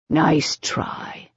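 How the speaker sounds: breathy whisper, dry. Acted. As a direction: whisper it back, unimpressed. Declan answers Rose's tease.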